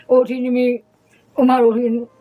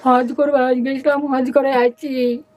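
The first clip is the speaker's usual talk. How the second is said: tearful telling; slower than usual. Real, not acted. Mother tells it while weeping.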